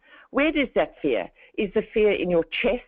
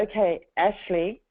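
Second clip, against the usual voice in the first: slowed calming voice. Shown as a demonstration. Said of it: "the way that I'm talking to you right now is very slowed".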